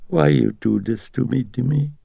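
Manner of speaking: put-on high, pleading old mother's voice. A narrator's reading. Mother pleading with her son, high and sorrowful. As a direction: beg him like a hurt old mother.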